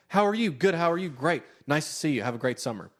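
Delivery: high, rattled-off mock pleasantries; put-on teen voices. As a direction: parody awkward teens trading stock greetings. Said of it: "give them the voices that I heard".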